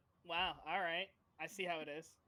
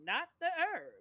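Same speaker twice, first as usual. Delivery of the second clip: put-on old prospector; 3 semitones higher than usual. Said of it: "Are you gonna keep this voice?".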